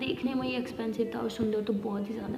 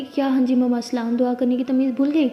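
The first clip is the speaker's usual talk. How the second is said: scolding mother; 8 dB louder than usual. Acted. Mother scolds daughter's greeting.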